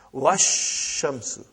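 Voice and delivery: wash shamsu, slowly, the sh doubled and no l; slow demo. Shown as a demonstration. Teacher modelling the joined form for the class, slowly. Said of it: "you will say wash".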